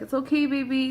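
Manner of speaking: imitating a soothing partner; gently reassure, lightly acted. Partner comforting her over the broken door, soothing.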